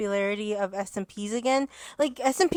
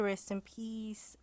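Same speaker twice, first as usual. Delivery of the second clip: solemn; 14 dB quieter, much slower than usual. Real, not acted. Mentioning a deceased creator.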